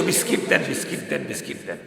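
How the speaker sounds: soft, breathy fading whimper; whimpering child. Retold or imitated. The crying child's plea fades before he calls mother, whimpering. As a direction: let the plea die away into a whimper. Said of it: "সন্তানের কান্নার শব্দ এখন change".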